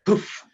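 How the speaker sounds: imitated poof. Imitates someone vanishing in an instant.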